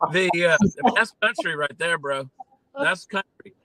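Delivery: chuckling through the words at his own joke; real laugh breaking into the talk. Real, not acted.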